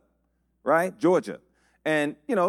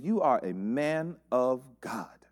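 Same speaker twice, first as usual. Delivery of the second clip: whispered; 4 semitones lower, 4 dB quieter, slower than usual. Retold or imitated. Preacher whispering the sister's praise back to the congregation.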